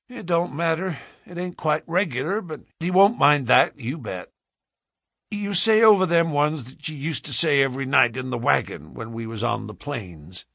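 lightly voiced folksy Western man; coaxing frontiersman. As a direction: reassure the child and nudge her on. Man coaxes child to pray.

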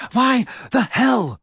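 put-on breathless, high, slow teen boy; panting Ron. A narrator's reading. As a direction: gasp it out in disbelief. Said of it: "panted Ron".

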